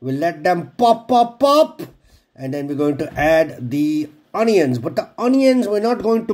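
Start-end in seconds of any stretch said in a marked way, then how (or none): 0.8-1.8 playful high pop. Pretend. Mimicking seeds popping.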